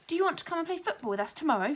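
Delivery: loud, fast eager shout of an invitation. A narrator's reading. Boy shouting to the new classmate, loud and fast. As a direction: call it out, bursting to ask. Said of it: "shouted Tom".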